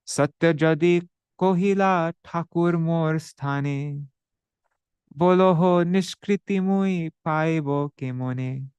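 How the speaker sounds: slow, measured recital of a Bengali verse; verse recitation. Acted. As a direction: intone the scripture line slowly and evenly.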